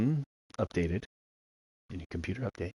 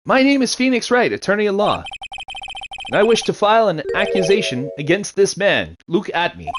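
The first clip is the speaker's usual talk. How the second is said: higher, declarative courtroom voice; formal, theatrical self-introduction; lightly voiced defense attorney; 6 semitones higher than usual. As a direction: lightly play a lawyer announcing an accusation.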